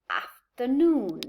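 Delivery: "afternoon" slowly, light AF and stronger NOON; secondary and main stress. Shown as a demonstration. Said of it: "is a secondary stress".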